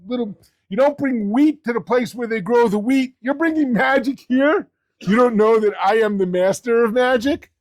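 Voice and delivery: mild retold taunt; a touch of boastful ridicule; mocking. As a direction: lightly scoff at amateur rivals. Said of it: "He starts making fun of them".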